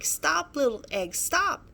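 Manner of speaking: high desperate calls; yelling. Acted.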